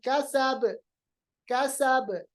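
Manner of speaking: कसब ending on a bounced b; qalqalah. Shown as a demonstration. Teacher stops on the last letter, कसब with springing b. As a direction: finish कसब with a little echo "kasabe". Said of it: "हरफ को साकिन बनाएंगे".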